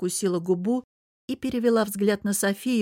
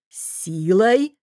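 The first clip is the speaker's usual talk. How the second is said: growled; 2 semitones higher, 7 dB louder than usual. Acted. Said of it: "прорычал я".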